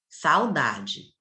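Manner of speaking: usual speaking voice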